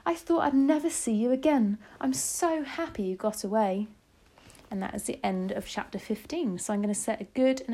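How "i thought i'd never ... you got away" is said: higher, heartfelt relief; mildly overcome, pitched up; emotional cry. A narrator's reading. Grandmother hugging the escaped child, happily relieved. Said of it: "she cried".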